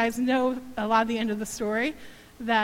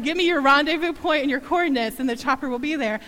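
louder strong voice; 2 semitones higher, 5 dB louder than usual. Retold or imitated. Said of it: "strong voice came across the phone".

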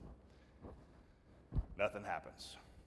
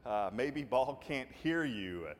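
mocking taunt; 2 semitones higher than usual. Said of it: "he's mocking them".

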